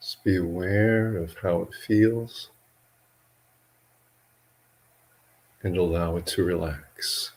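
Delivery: measured meditation guidance with long pauses between phrases; guided meditation. Real, not acted. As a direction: guide listeners gently into relaxing, leaving long silences.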